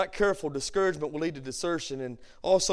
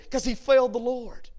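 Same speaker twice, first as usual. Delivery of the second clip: raised-pitch, emphatic answer; emphatic preaching; 5 semitones higher than usual. Real, not acted. Preacher explaining Peter's broken heart, emphatic. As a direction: answer your own question firmly from the pulpit.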